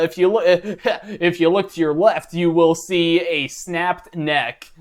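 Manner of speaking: slow, lightly voiced tour guide. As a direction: point out the sights like a tour guide. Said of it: "that's my tour guide impression".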